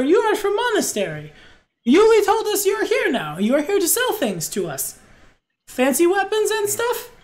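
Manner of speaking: high, lilting merchant in broken English; high-pitched, accented market trader voice; eager merchant. Acted. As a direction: greet customers as an excitable foreign shopkeeper.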